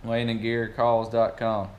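spelled out slowly for clarity; slow and clear. Shown as a demonstration. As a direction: say the web address slowly and distinctly. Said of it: "so you get that spelled right".

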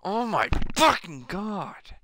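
real high-pitched scream of rage, words dragged out; enraged screaming. Real, not acted. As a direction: scream it slowly at the game, way up high. Gamer raging after being killed.

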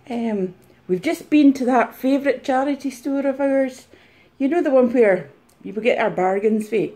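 lightly hammed-up reseller chatter; mock reseller. Impersonator plays reseller sharing bargains and gripes, lightly mocking. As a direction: gently send up a chatty vlogger. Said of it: "taking the mic out of a reseller".

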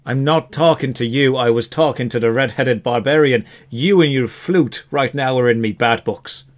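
put-on tetchy elf in an Irish accent. Elf snubs the flute-playing bard, tetchy Irish accent. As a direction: dismiss them in an Irish brogue. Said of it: "the elf is Irish".

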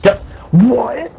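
high-pitched disbelief; stunned gamer protest, pitched high; incredulous. Real, not acted. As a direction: voice jumps up in real surprise. Disbelief at getting killed.

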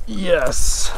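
a real high yelp of joy; excited yes. Real, not acted. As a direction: cheer the catch. Landing a trout.

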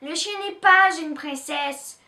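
big sister scolding in a rage; raging. Acted. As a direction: bite it out in anger. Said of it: "rage Pistache".

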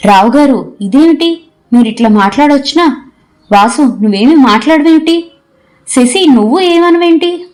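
a startled hostess pleading for someone to speak; flustered alarm. A narrator's reading. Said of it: "గాబరాగా అంది చంద్రిక".

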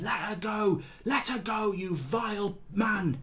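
a hint of a shrill schoolmarm; mock high teacher. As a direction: pitch up and squeeze out a prim teacher's rebuke.

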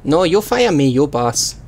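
hammed-up Chinese-style accent in broken English; mock broken-English accent. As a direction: play a delivery driver with a crude Chinese accent. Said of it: "the worst and most offensive accent".

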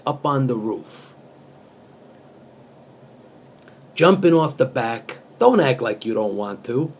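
earnest spoken-word reading of song lyrics; deadpan poet reciting pop lyrics; poetry reading. Acted. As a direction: read it like serious poetry. Verse read as poetry.

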